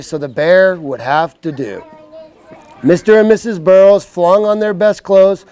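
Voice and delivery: slow, clear storybook voice; reading to children. Acted. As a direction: read it like a bedtime book. Reads picture book to kids.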